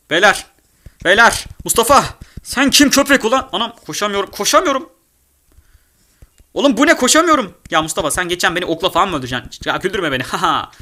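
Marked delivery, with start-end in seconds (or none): 0.1-7.5 high, loud frantic cries; panicked yelling. Real, not acted. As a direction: yell for help while being chased. Chased in game, panicking.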